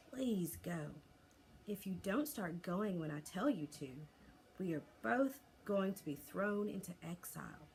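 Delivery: patient and calm; reasonable. Acted. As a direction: reason with him gently. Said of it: "said Hiccup as reasonably as he could".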